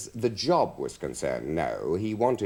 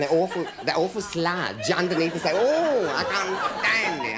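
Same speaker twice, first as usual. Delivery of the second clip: theatrical revulsion; 6 semitones higher than usual. Acted. Comic confessing loathing of soap sludge, theatrical revulsion. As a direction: recoil in hammed-up horror. Acting out his soap phobia.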